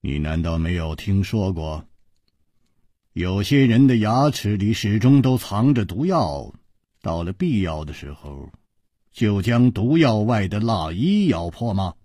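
subdued, mostly low voice; understated resignation; sighing explanation. Acted. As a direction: explain with a weary sigh. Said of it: "楚留香叹道".

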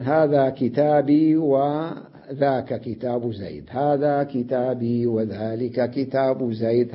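slow demonstration, holding the ee of كتابي; silent ya. Shown as a demonstration. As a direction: say كتابي with a long unvowelled ee running on. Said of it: "الياء ساكنة في الوصل". (ياء ساكنة في الوصل)

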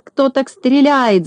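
high, slow exasperated yell; exasperated shout. A narrator's reading. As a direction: throw up your hands in exasperation. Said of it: "закричал с раздражением Клопс".

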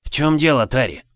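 sudden alarmed question; worried question. Acted. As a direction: ask in alarm. Friend calls out worried.

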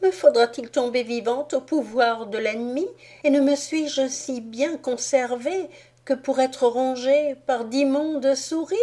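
high, plaintive doll voice; a proud little doll wailing at her fate; doll's lament. A narrator's reading. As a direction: princess doll crying out in despair. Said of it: "disait mademoiselle Rose".

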